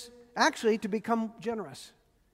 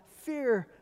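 tender; slower than usual. Acted. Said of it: "the tender voice of Jesus calling out".

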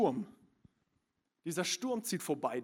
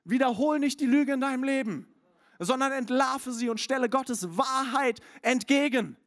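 preaching at full force; 7 semitones higher, 4 dB louder than usual. Acted. Preacher to congregation, high and proclaiming. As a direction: proclaim each truth, one by one.

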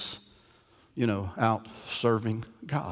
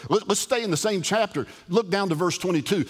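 fired-up preaching; 3 semitones higher than usual. Acted. Preacher urging his congregation through the Bible, fired-up and fast. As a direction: press the point home, climbing.

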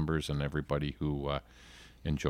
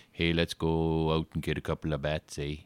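mock Canadian accent. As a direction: play the stereotype Canadian bro, Canadian accent. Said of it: "guys who go".

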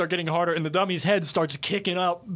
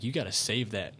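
mock whisper; 3 semitones lower, 5 dB quieter than usual. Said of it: "my buddy's whispering in my ear".

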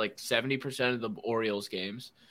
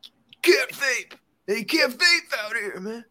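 security guard; 11 semitones higher, 4 dB louder than usual. Retold or imitated. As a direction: play the stern guard telling kids off. Security guard scolding vaping kids.

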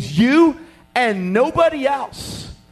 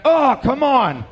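slow laughing groan of mock dismay; 4 semitones higher, slower than usual. Coworker groans through a laugh at being sent out.

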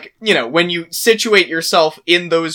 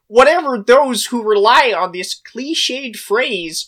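Kermit the Frog. Pretend. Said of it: "can you do a Kermit the Frog voice".

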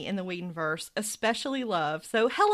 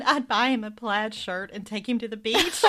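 laughing quote. Retold or imitated. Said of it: "And Cordelia said".

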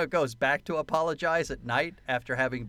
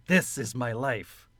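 slow, heavy, resigned sigh of a line; slow deadpan refrain; 3 semitones lower, slower than usual. Shown as a demonstration. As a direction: drag it out like a weary catchphrase. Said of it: "the constant refrain".

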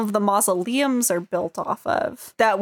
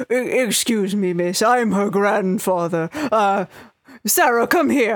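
a hint of a frail grandpa calling; old grandfather. Grandfather hobbling over to claim Sarah, lightly voiced old man. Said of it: "older man ... hobble over and is like".

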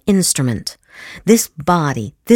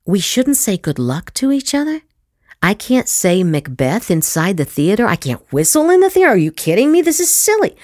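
higher, dismissive mock scoffing; mocking skeptic; 4 semitones higher than usual. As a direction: scoff at superstition like a know-it-all. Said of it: "a lot of you think".

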